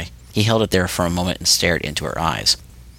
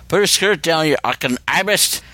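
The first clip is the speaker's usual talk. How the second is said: slurred through noodles; 9 semitones higher than usual. A narrator's reading. Spider yelling at Seedy while eating, slurred. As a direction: yell with a mouth full of noodles. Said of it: "Spider slurred through another mouthful of noodles".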